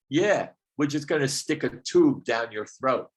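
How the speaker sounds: lightly voiced Brooklyn gangster; a touch of Brooklyn tough guy; Brooklyn gangster doctor. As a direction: imitate a gangster doctor laying it out. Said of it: "a Brooklyn gangster doctor".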